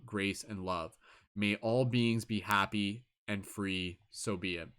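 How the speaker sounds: slow, measured prayer reading; solemn invocation. Acted. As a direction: intone it like a sacred vow. Reads the invocation aloud.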